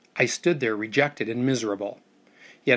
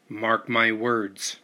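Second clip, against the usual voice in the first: slow and sullen; much slower than usual. Acted. First mate grumbles at the uncle, slow and sullen. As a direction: drag the words out, resentful. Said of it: "the first mate said sullenly".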